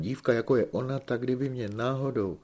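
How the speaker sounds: breathless lover's daydream; excited. A narrator's reading. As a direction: trip over náhodou in excitement. Igolén dreams aloud about the girl.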